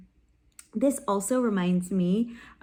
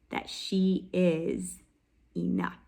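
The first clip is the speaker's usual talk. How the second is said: reassuring; 4 semitones lower, slower than usual. Real, not acted. Teacher assuring students the character is enough, slow and gentle.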